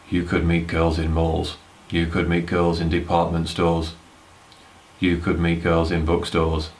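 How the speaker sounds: slow, monotone robotic listing; a lightly robotic advice-video read. Retold or imitated. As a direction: drone it out like a machine, slowly. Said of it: "Like a fucking robot or something".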